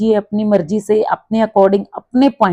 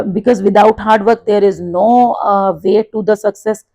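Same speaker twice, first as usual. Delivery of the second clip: model answer; much slower than usual. Shown as a demonstration. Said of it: "teacher models a sample spoken answer".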